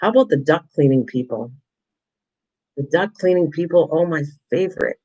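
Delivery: dry mock enthusiasm for the duct cleaning callers; a wry, eye-rolling "favorite"; sarcastic. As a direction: praise it like you hate it. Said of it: "and I'm being sarcastic".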